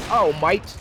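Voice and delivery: lightly put-on Australian accent; cringy Australian accent. Caster mimics Australians looking up and saying it, cringy Australian accent. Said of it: "ignore the cringy accent".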